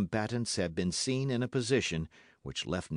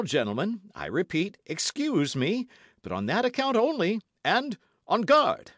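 high, louder, proud and rising to a cry; bold young challenger; 8 semitones higher, 5 dB louder than usual. A narrator's reading. D'Artagnan challenges the three musketeers, boldly rising. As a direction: throw down the challenge boldly, building to on guard.

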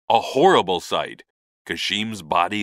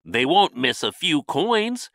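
higher-pitched musing to himself; lightly voiced thought, pitched up; thinking aloud; 8 semitones higher than usual. A narrator's reading. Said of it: "he thought".

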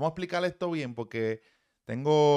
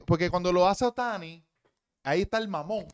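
higher and louder, mocking the critics; loud sarcastic jab at the double standard; sarcastic outburst; 5 semitones higher, 6 dB louder than usual. Real, not acted. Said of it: "sarcastic outburst about Ohtani". (burla sarcástica, más aguda y fuerte)

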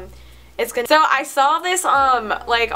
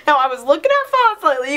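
higher-pitched southern accent; 5 semitones higher, 3 dB louder than usual. Shown as a demonstration. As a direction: put on a playful southern accent. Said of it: "say it in a southern accent".

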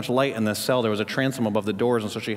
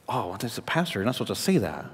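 mock objector; 2 semitones lower, 5 dB quieter than usual. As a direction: voice a doubting listener under your breath. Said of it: "Listen, I'm not saying".

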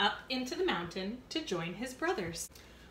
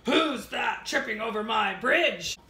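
slow, louder troll voice; 6 dB louder than usual. Acted. Troll challenging the biggest goat, slow and louder. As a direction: drag it out menacingly. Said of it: "mean old troll".

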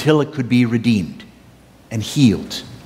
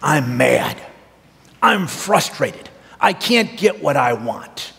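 sulking king Ahab; slower than usual. Retold or imitated. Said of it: "And Ahab says".

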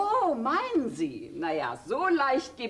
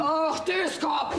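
scornful scolding; slower than usual. Acted. Wife scolds husband as dimwit.

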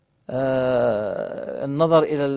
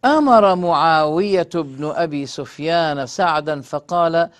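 formal hadith reading; 3 dB louder than usual. A narrator's reading. Lecturer reading a hadith to his listeners, formal recitation. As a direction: read the sacred text out deliberately. Reads a hadith text aloud.

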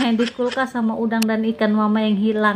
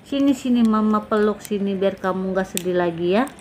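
lower, soothing coaxing; comforting mother; 4 semitones lower than usual. Acted. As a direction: gently soothe a child after a bad dream. Ibu menenangkan anak sedih. (ibu menenangkan anak)

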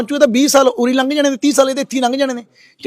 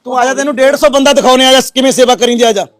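loud, angry taunting dare; threatening challenge; 6 dB louder than usual. Real, not acted. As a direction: dare him to come over, voice raised. (ਗੁੱਸੇ 'ਚ ਉੱਚੀ ਵੰਗਾਰ)

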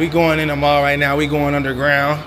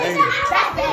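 calling out. Real, not acted. Calling to crying kid.

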